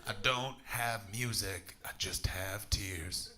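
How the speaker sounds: mock gothic lament. Mock goth confession, slow.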